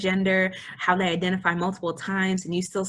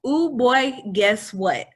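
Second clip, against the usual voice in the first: put-on higher, louder "Ooh, boy" sung out; corrected gushing greeting; 4 semitones higher, 4 dB louder, slower than usual. Host correcting herself to a trans man, cheerful and loud. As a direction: fix it and breeze on cheerfully. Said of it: "I say, "Excuse me, I'm sorry".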